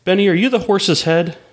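lightly put-on circus host voice; clown host. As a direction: ask it like a clown working the crowd. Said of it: "the clown asks his name".

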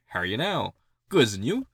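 lightly exaggerated Canadian greeting; accentuated Canadian accent. Shown as a demonstration. Demonstrating the show's greeting exchange, accentuated Canadian accent. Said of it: "it is accentuated Canadian accent".

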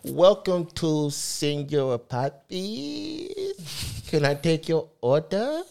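high, drawn-out flirty waitress voice; hammed-up waitress greeting, way up high; mock waitress. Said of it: "Pretend I'm a waitress".

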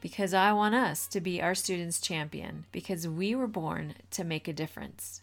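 upbeat announcer read; bright show-opening voice; podcast intro. Acted. Podcast intro read over music.

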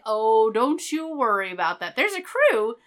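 breezy con man waving off worry, rising high; smug Mudd. Retold or imitated. Mudd reassuring Kirk about the crew, high and smug. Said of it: "And Mudd's like".

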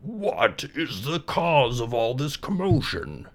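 slow, dignified, pompous groundhog; slow, pompous old groundhog. Acted. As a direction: speak with stuck-up dignity. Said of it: "he asked".

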